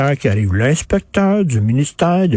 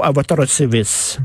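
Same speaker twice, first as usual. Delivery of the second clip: slow mock constable; slower than usual. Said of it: "comme disait R B O".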